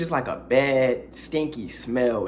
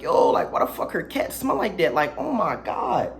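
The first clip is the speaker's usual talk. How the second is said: disgusted; 3 semitones higher than usual. Retold or imitated. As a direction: recoil at the smell. Disgusted at the smell.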